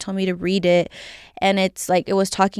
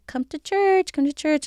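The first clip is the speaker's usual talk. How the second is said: high, pushy mock nag of a churchgoing friend; nagging friend; 7 semitones higher than usual. Mimicking a friend nagging her to come to church, high and insistent. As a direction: pester her like a persistent friend. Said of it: "she was just always there holding me accountable".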